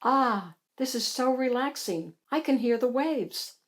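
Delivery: blissfully relaxed. Acted. Hattie imagining the beach with Bonnie, relaxed and soft. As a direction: sigh it out at ease.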